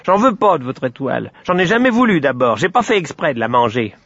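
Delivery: put-on petulant, childish self-excusing; whiny little pig making excuses; sulky piglet. Piglet excuses himself to the sun, sulky.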